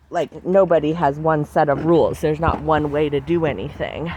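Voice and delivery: slightly breathless; talking while short of breath. Real, not acted. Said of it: "Ooh, I got a little out of breath there".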